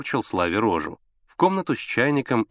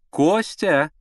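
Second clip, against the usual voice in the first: higher, louder call from another room; 7 semitones higher, 4 dB louder than usual. A narrator's reading. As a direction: call him from the bedroom. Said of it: "донёсся из спальни голос". (громкий зов из спальни)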